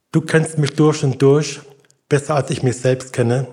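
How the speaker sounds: measured prayer with long pauses between sentences; vorgesprochenes Gebet. Real, not acted. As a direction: lead a prayer for others to repeat, phrase by phrase. Leads a spoken prayer. (feierliches Gebet mit langen Pausen zum Nachsprechen)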